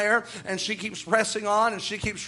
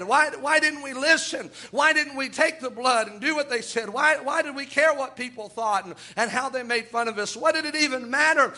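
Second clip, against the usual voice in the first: higher-pitched, pleading lament of the doomed; mock anguished cry; 4 semitones higher than usual. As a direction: wail it as the lost crying too late. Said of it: "crying out and saying".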